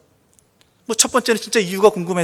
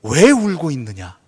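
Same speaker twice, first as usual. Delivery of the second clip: a lightly voiced angel asking slowly; slow, gentle question from an angel; angel's question; 4 semitones lower than usual. Pastor voicing the angel asking Mary, slow and gentle. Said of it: "천사는 대신 이렇게 물어봅니다".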